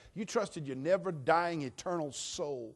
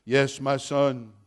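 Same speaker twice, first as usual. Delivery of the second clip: slow, calm voice from heaven; voice of God; 11 dB louder, much slower than usual. Acted. God answers the falling man, slow and calm. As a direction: speak slowly like God from above.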